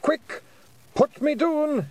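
high, loud, panicked pixie shout; urgent yell. Acted. Rob Anybody shouting at Tiffany to put him down, urgent high yell. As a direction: shout at her to drop you, fast. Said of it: "he yelled".

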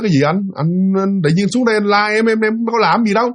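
mildly bewildered wife protesting; lightly voiced baffled protest; taken aback. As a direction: imitate a puzzled wife denying it. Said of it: "Bà vợ bà chưng hửng mới nói".

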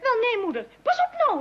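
squealing with laughter, pitch jumping up; laughing. Acted. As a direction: laugh through a warning. Daughter laughing at open window. (lachend, met hoge gierende stem)

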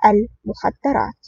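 slow, composed delivery of one word; calm. A narrator's reading. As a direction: drop it calmly and slowly. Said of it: "أردف أدهم قائلا بهدوء".

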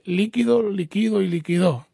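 LÍquido, liquÍdo, liquidÓ, stress stepping rightward; contrasting word stresses. Shown as a demonstration. Host recaps grammar for a caller, stress shifting across líquido and liquidó. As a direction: recite líquido, líquido, liquidó, moving stress one syllable later each time. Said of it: "el acento está en la I".

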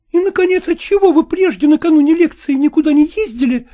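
high, reproachful woman's voice; jealous wife. A narrator's reading. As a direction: accuse him in a high woman's voice. (высокий упрёк ревнивой жены)

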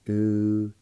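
U-nin-di-nu-di as five separate syllables with pauses. Shown as a demonstration. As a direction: isolate and hold each syllable of U-nin-di-nu-di. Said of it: "with the N I like this".

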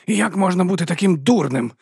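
high, loud furious question; raging. A narrator's reading. Vons raging at Vimes, high and loud. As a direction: rage at his stupidity. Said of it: "скаженів він".

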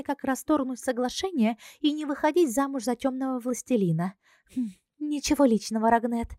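airy princess explaining the contract; Ruaza's voice. Acted.

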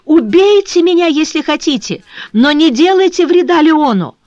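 high, loud despairing cry; a girl crying out for her fiancé, high and loud; desperate outcry. A narrator's reading. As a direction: scream it out, begging. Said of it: "вскричала бедная девушка".

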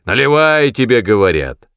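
loud, insistent наливай; insistent repeat. Acted. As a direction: press the command again. Repeated command. (настойчивый повтор)

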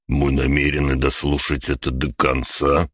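ordinary delivery, nothing marked

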